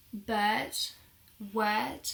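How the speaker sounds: "Bird" and "word" with a long vowel and no R; non-rhotic "Bird", "word"; almost silent R. Shown as a demonstration. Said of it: "the R sound is almost silent".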